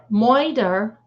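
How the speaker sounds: slow, drawn-out moider with an oi vowel. Shown as a demonstration. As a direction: say moider like murder in a Brooklyn way. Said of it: "we got moider twice".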